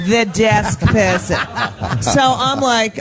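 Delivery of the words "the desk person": drawn-out, mock-posh Queen accent. Comic mocking a colleague's phrase, mock Queen accent. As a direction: draw it out in an exaggerated Queen's English. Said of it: "sound like I'm the Queen".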